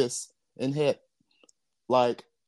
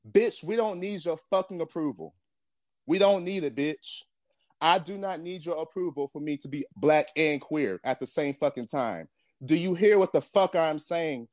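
pissed off; 5 semitones higher than usual. Real, not acted. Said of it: "I done got real pissed off".

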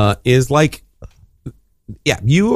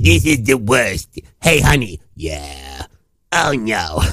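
impression of mother; 2 semitones lower, slower than usual. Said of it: "my mother's the one that sounds like Harvey Fierstein".

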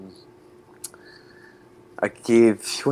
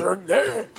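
Scottish accent; 6 semitones higher than usual. Shown as a demonstration. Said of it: "Just sound aggressive".

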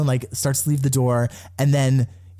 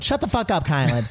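quoting Tiffany; 3 semitones higher than usual. Retold or imitated. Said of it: "To quote Tiffany in the diary room".

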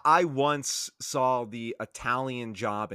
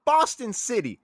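Boston tough guy; 3 semitones higher than usual. Retold or imitated. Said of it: "and he was like".

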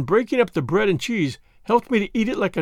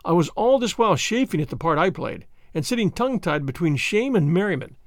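usual speaking voice

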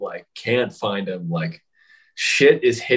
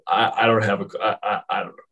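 stammering panic; 3 semitones lower than usual. Retold or imitated. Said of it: "I think I swallowed my tongue".

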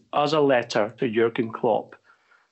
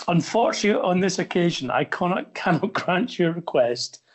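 reading aloud with a chuckle; amused, gentle laugh breaking through; kind gentle laugh; 5 semitones higher than usual. Real, not acted. Reading Klopp's reply, laughing.

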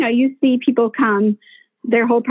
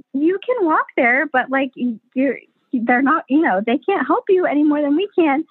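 higher-pitched, placating midwife reply; retold gentle objection; 6 semitones higher than usual. Midwives answering a client who wants hospital, retold placating. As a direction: reason with her in a raised pitch. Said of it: "so we're like".

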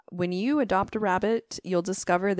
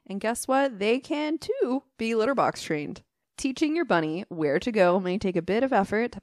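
infomercial. Real, not acted. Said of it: "You read that like an infomercial".

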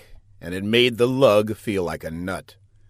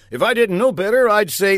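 Buck's quip; 10 semitones higher, 6 dB louder, faster than usual. Acted. Buck voiced, raised pitch.

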